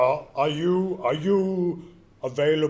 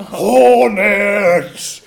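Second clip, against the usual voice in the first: loud, high shout through laughter; laughing shout; 7 semitones higher, 14 dB louder than usual. Acted. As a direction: yell it with a laugh.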